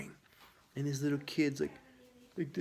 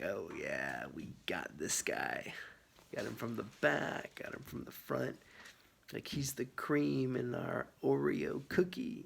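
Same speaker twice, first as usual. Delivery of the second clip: hushed, lightly voiced evil twin dogs; conspiratorial whisper. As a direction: plot in a whisper like a mock villain.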